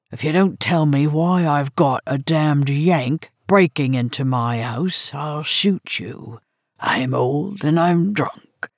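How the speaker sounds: put-on slurred, menacing old Englishwoman; threatening drunk old lady; drunk old woman.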